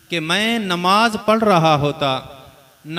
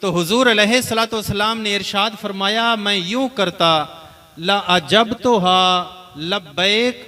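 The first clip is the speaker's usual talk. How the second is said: raised, higher preaching voice; impassioned preaching; 3 semitones higher than usual. Acted. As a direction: preach it with rising fervour.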